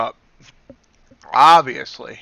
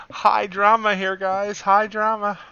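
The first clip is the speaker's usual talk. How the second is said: excited; 7 semitones higher than usual. Real, not acted. Market spiking, streamer hyped.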